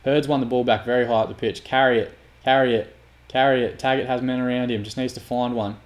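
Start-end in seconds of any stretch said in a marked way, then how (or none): 1.6-3.8 loud, repeated urging. Real, not acted. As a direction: spur the player on, louder each call. Urging his player on during match.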